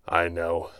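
slow, broken phrases with long gaps; halting words. A narrator's reading. Wounded hero struggles to speak to his enemy, halting. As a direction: force out each word through pain. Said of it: "a few halting words escaped his lips".

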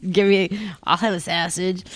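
broad Chicago "sausage" with flat open a; hammy Chicago order at the counter; Chicago accent. Shown as a demonstration. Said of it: "I just sounded like Ramona Singer".

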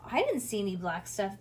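ordinary delivery

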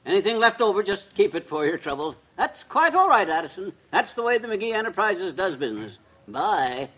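lightly put-on tycoon on the phone; pretend important phone call. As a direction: fake a busy call to impress. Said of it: "I'll be on the phone. You know, big impression".

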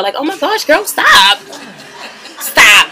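laughing protest. Real, not acted. Laughing at the screen, begging it to stop. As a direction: laugh and beg them to stop.

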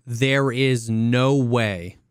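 slow, drawn-out smug claim; mock certainty. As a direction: drag each word like a know-it-all. Mocking confident chatters.

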